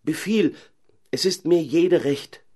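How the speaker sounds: urgent cry. Acted. Caliph urges the owl to name her condition, high insistent shout. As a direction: shout at her to speak, impatient.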